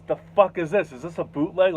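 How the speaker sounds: mildly indignant retold question; offended. Jay looking at a suspect disc, mock offended. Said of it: "Like, he got offended".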